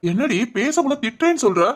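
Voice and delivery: mildly indignant scold. Acted. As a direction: protest as if telling them off. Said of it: "நீ பேசுறது திட்டுற மாதிரி தான் இருக்கு". (லேசா திட்டுற மாதிரி)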